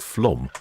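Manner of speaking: "flom" with a rounded O; tentative corrected pronunciation. Shown as a demonstration. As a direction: try out "flom", rhyming with "Tom". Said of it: "Is it more like".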